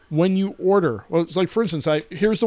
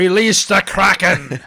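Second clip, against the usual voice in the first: dramatic movie line; 6 dB louder, slower than usual. Pretend.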